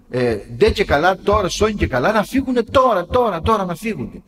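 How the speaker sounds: acting out someone demanding it right now; impatient insistence. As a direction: push each repeated "τώρα" like someone who can't wait. Mimicking an impatient demand for thoughts to leave.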